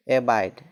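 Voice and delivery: एबाइड said clearly as e-baid, stress on baid; teacher models एबाइड for students, e-baid; teacher's model word. Shown as a demonstration. Teacher to pupils: एबाइड, e-baid, clear model. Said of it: "जैसे".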